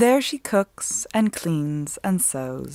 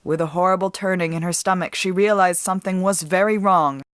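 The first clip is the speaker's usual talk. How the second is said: ordinary delivery, nothing marked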